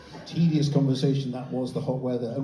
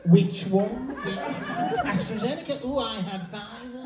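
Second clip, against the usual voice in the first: tedious jab chat; 4 semitones higher than usual. Acted. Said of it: "in the U K with tedious conversations".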